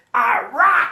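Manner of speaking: high, over-the-top rock and roll star voice. After thanking a band, switching into an ultra rock and roll voice. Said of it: "That was my ultra rock and roll voice".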